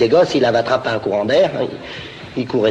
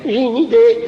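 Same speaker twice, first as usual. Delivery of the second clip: eager idea; 8 semitones higher, 5 dB louder than usual. Acted. Character gets idea, high.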